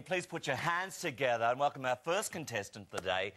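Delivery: big build-up to a long shouted name; game show announcer. Acted. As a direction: welcome the contestant like a TV host, stretching Warren out. Host introduces first contestant.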